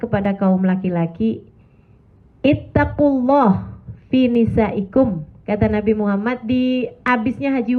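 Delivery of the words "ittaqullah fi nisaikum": slow, measured recitation of the Prophet's words; recited Arabic quotation. Acted. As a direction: recite it slowly like scripture. Quoting hadith in Arabic. (bacaan hadis yang pelan dan khidmat)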